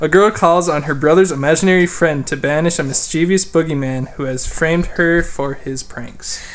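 laughing. Shown as a demonstration. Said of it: "Say that again".

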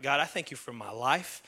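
low, soft prayer of thanks; thankful prayer. Shown as a demonstration. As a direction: pray quietly, listing each thanks. Models a quiet prayer of thanks.

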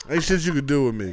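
laughing repeat. Real, not acted. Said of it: "Always love saying that".

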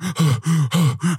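big winded exhale; heavy panting sigh. Retold or imitated. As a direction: blow out air like after a sprint. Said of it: "I'm huffing and puffing".

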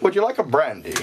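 lightly voiced suave Scottish actor; a hint of mock film-star polish; Sean Connery. Offering a drink in the bit, mock Scottish star voice. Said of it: "Let's do a Sean Connery voice".

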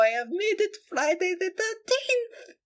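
breathy hushed reveal, high and airy; spooky whisper. Acted. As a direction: whisper it like a secret curse. Spooky reveal of Friday the 13th.

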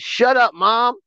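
high-pitched imitation of a son's outburst; mock scream. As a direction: snap it high, half-shouted, at Mom. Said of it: "screaming at Aaliyah. Then he said".

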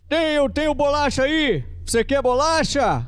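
high, slow sugary offer; sing-song high biscuit bait; silly coaxing voice. Shown as a demonstration. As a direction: tempt the demon like a child. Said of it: "Tenta outra voz".

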